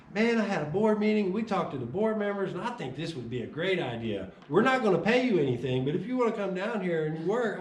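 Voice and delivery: hint of an eager boss. Employer flips script, upbeat.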